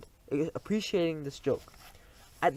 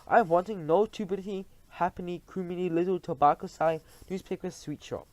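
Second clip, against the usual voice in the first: mildly raised witch voice; shouted; 4 semitones higher than usual. Acted. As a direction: scorn the cheap shops. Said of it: "shouted the Grand High Witch".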